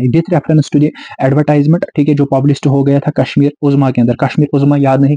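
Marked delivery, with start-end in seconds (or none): 0.0-1.8 dita "with reference to the advertisement" pausadamente; slow dictation. Shown as a demonstration. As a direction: dictate it slowly for students to copy. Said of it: "ये line याद ही करना है".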